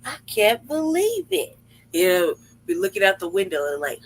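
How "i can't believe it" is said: mock disbelief. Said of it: "mouth feels like".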